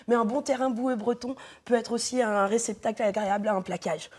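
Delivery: speaking around a mouthguard; wearing a mouthguard. Real, not acted. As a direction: mouthguard in, words muffled. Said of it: "je vais parler normalement quand même".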